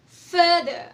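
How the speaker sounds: "Further" said clearly for the class to copy; model word. Shown as a demonstration. Teacher models "Further" for the class to repeat. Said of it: "Everybody repeat after me".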